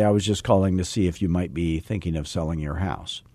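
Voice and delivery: put-on old slow pitch. Shown as a demonstration. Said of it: "And I used to say".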